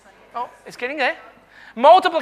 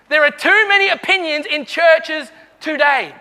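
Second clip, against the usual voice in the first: said again with more force for the crowd; 1 louder preaching repeat. Shown as a demonstration. Preacher repeats his point louder to the church. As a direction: punch it harder the second time. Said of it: "Oh, someone like that".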